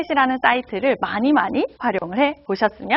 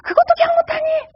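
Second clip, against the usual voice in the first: much higher, whiny exasperated mom; mother reproaching her forgetful child, much higher and exasperated. Retold or imitated. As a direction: wail it like a mother at her wits' end. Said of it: "다시 또 얘기합니다".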